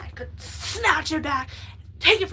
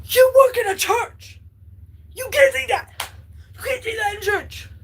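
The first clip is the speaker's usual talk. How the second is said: louder, higher, outraged comeback; indignant retort; 9 semitones higher, 5 dB louder than usual. Retold or imitated. Snapping back at a friend in church, outraged and loud. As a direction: throw it back at him, scandalised. Answering friend who said shut up.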